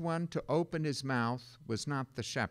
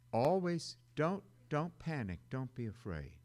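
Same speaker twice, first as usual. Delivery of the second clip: soft reassurance; 7 dB quieter than usual. Shown as a demonstration. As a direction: whisper it gently as comfort. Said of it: "sermon refrain".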